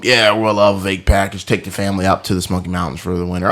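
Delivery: put-on easy Southern salesman accent. Salesman selling a Smoky Mountains package, Southern accent. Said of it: "Southern, just doing the accent".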